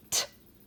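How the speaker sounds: "T-I-G-E-R." sounded out as t, ig, er with gaps; crisp t alone, then held sounds in "T-I-G-E-R."; segmented sounds. Shown as a demonstration. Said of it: "Let's segment that".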